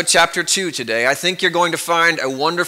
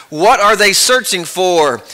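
alarmed boss; 3 semitones higher than usual. Acted. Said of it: "Alarmed, concerned, and more ... a little frustrated".

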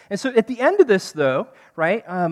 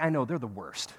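hushed gossip; 9 semitones lower, 8 dB quieter than usual. Pretend. Jesus voiced as gossip partner.

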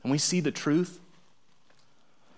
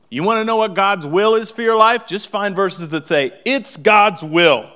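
higher, louder sermon call; rally the congregation; preaching at full force; 5 semitones higher, 6 dB louder than usual. Real, not acted.

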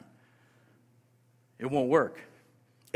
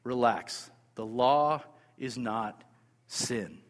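reassuring; 6 semitones lower, slower than usual. Retold or imitated. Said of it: "Paul assures his audience".

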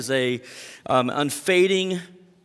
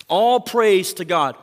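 loud, slow, higher-pitched exhortation; call to praise; 4 semitones higher, 6 dB louder, slower than usual. Retold or imitated. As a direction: proclaim it as a call to worship. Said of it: "calling them to praise".

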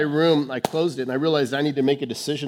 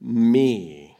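voice of Jesus; 6 semitones higher, 7 dB louder, slower than usual. Retold or imitated. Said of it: "And Jesus says".

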